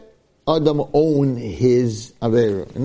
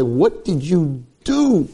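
slow, drawn-out mock accusation; hammed-up slow confrontation; accusing question; 3 semitones higher, much slower than usual. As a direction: stretch each word into a reproach. Accusation Shmuel should supposedly have made.

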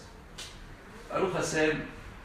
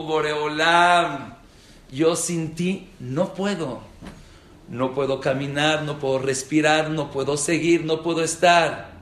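heartfelt plea; 7 dB louder than usual. Retold or imitated. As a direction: pour your heart out to God. Súplica sincera a Dios. (súplica sentida que crece en fuerza)

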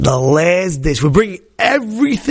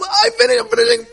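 much higher, mock triumphant cry; gleeful exclaim. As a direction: crow it out joyfully, up high. Friend exulting as dish breaks.

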